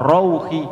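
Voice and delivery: "rauhi" with a thick rolled "ro" onset, like "rouhi"; fathah jadi o. Shown as a demonstration. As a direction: round the a of "rauhi" to o. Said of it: "fathahnya jadi o". ("rauhi" dibaca tebal, rouhi)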